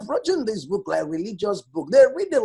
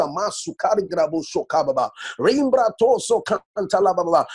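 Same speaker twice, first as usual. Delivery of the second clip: speaking in tongues. Real, not acted. Praying in tongues mid-sermon.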